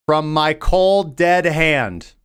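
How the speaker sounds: slow, drawn-out mock defiance. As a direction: stretch it out as a hammed-up last stand. Defiant warning to Donald Trump.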